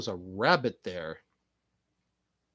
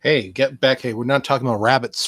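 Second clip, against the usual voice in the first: calling out; 6 dB louder than usual. Real, not acted. Calling the rabbits back.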